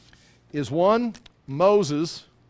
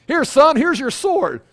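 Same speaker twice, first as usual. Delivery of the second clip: mock God voice; 9 semitones higher, 8 dB louder than usual. Voicing God handing a sword.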